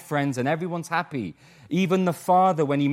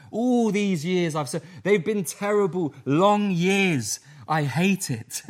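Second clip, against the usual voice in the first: bitter resentment; 4 semitones higher, slower than usual. Retold or imitated. Resentful son complaining to father about long years, bitter. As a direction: spit out years of grudging labour. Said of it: "He hates the work".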